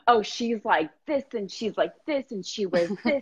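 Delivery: rising, giddy rundown of her dream self; excited client gush. Retold or imitated. Client telling coach about her bolder self, giddy and rising. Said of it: "They're like".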